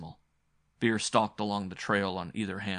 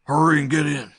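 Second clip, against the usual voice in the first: loud, high panicked urging; panicked shout; 7 semitones higher, 13 dB louder than usual. A narrator's reading. Frightened uncle hurries the group inside, panicked shout. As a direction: yell it in panic. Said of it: "Panic still thrummed in his voice".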